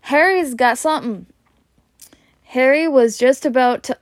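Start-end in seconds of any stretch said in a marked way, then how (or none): 0.0-1.3 calling out. Acted. Dudley calls out to father.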